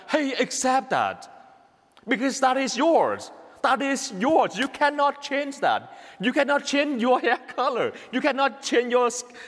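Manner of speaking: imitating a friend's firm urging; insistent advice. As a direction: press the point as an insistent friend. Voices friend's firm advice to him.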